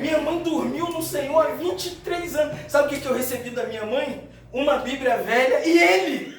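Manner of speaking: high, loud testimony from the pulpit; impassioned preaching. Acted. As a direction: swell to a loud, fervent peak. Preaches at full force. (pregação fervorosa, voz alta e aguda)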